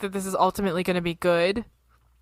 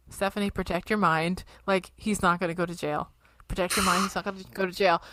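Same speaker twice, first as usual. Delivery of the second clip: inner self-talk; 6 dB quieter than usual. Retold or imitated. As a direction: quietly coach yourself through it. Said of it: "in my head, I'm like, okay".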